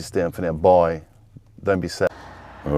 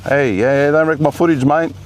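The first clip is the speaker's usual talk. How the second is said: high, loud shout across the car park; calling out; 8 semitones higher, 4 dB louder than usual. Real, not acted. Vlogger shouting to his brother pulling in beside, high and loud. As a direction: call out over to him, up and loud.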